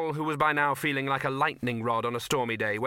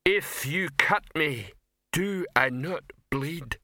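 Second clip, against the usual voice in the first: slow, higher troll voice, declaiming; wounded troll; 5 semitones higher, slower than usual. A narrator's reading. Troll pleading his feelings to the director, wounded. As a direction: plead it grandly and slowly as a troll.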